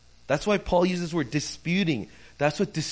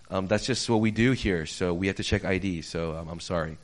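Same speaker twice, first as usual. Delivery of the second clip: apologetic refusal; 8 semitones lower than usual. Retold or imitated. Counter man apologetically refusing refund.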